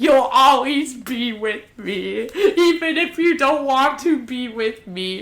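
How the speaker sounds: slow, lightly hammed-up clinging declaration; imitated obsessive girl. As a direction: draw it out like a mock obsessive vow. Acts obsessed girl's declaration.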